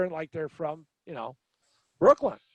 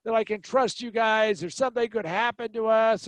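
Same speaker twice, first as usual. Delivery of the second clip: higher-pitched imitation of an upset woman; mock tearful panic; 5 semitones higher than usual. Woman offered a ride by two strangers, mildly panicked imitation. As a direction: lightly act out a distrustful, tearful stranger. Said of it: "loses her shit and starts crying".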